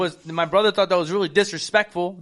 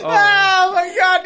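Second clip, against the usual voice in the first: surprised; 10 semitones higher, 4 dB louder, slower than usual. Real, not acted. Realizing the timer was off.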